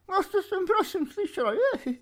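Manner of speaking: very high, quavering timid reply; trembling voice. A narrator's reading. Housekeeper timidly answers the sergeant, trembling. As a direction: answer in a frightened, trembling squeak. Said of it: "ozvala se třesoucím hlasem".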